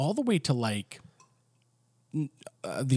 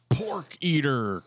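mock judge whisper; slower than usual. Mock judge passing sentence.

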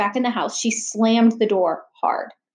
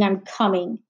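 grumbled; 3 semitones lower than usual. Acted. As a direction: grumble "I'm coming" under your breath. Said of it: "Natalie grumbled".

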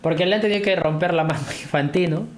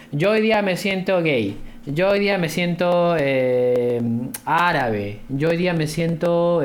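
slow, slightly raised mock declaration; Infantino; slower than usual. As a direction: lightly parody a solemn, drawn-out official statement. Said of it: "dice en sus declaraciones". (imitando levemente una declaración solemne)

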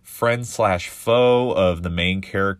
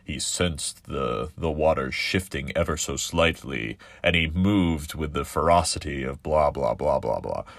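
a touch of a solemn narrator; mock dramatic narration; 3 semitones lower than usual. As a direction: read it like purple shark prose, lightly mocking. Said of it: "you get that shark perspective where the shark's like".

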